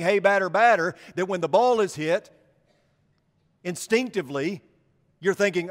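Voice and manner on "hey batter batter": mock chatter yell. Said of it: "concentrating so heavily on saying".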